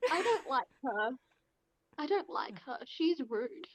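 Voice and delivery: mild petty sulk; pouting. Acted. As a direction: complain through a pout. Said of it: "and just pouts".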